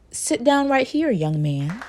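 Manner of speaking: lightly voiced teacher, slow, high then dropping; mock a teacher ordering a kid to sit, slowly; teacher quote. Teacher to the lost student, slow mock order. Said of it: "That, that was a real good one".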